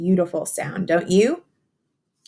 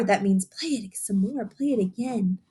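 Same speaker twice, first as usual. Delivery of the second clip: picture book reading; slower than usual. Acted. Teacher reading a rhyming book to young children, sing-song storytelling. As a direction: read the rhyme to the children, savouring each line.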